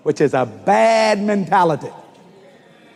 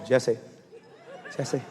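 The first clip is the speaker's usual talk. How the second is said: soft, low whispered name; God's whisper; 7 semitones lower, 10 dB quieter than usual. Retold or imitated. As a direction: breathe the name gently. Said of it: "It was a whisper".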